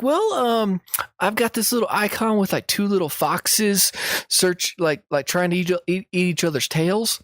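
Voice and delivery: high-pitched granny fumbling with her computer; Southern old lady. Acted. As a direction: play dumb like a sweet old grandma. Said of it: "pretended like I was a, just a Southern idiot".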